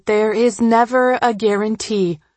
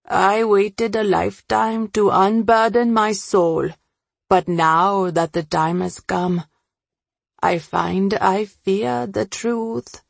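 a hint of a burdened man confessing; understated confession, slowing at the end; lightly voiced Ravi. Ravi confesses his fear.

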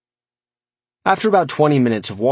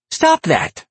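higher, exasperated order; mild yell; 6 semitones higher than usual. A narrator's reading. Narrator to his nodding imp, mild yell. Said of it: "I yelled".

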